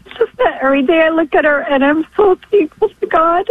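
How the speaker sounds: tearful, grateful voice breaking; weeping through thanks; real crying while giving thanks. Real, not acted. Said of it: "I wasn't expecting to get so emotional".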